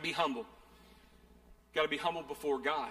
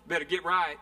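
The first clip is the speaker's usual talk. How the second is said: mock hellfire preacher; 3 dB louder than usual. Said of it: "y'all been to that church before".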